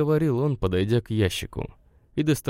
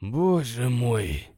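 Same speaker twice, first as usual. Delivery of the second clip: slow, sour, drawn-out sigh of words; sour drawl; 2 semitones higher, much slower than usual. A narrator's reading. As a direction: drag it out wearily, sour. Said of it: "кисло протянул он". (кисло протянуть)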